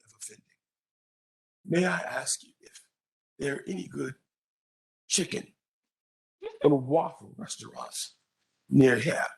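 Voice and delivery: put-on half-hearted British accent, halting; British accent, badly done and tentative; attempted British accent. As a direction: lightly imitate a polite British academic. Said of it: "I can't do his British accent".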